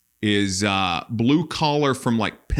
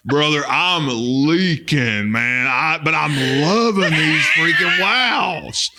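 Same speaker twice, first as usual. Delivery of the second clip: hammed-up redneck; 2 semitones lower than usual. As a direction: keep the proud leaking snacker going. Continued redneck character monologue.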